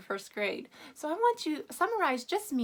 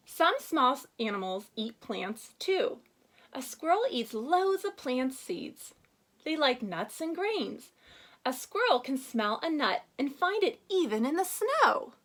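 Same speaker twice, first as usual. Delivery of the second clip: lightly expressive read-aloud voice; reading aloud to children; 2 semitones higher, 3 dB louder than usual. Acted. Teacher reading Go Wild to first graders, storybook read-aloud.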